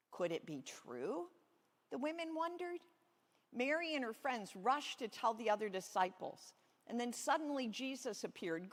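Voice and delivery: put-on lively storybook reading to kids; reading to children. Pastor reading Easter story to children, storybook voice. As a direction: tell it like a children's Bible story.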